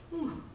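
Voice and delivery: small, high, soft "whew"; hushed little whew of awe. Retold or imitated. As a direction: let out a quiet, high whew. Retold reaction to goosebumps.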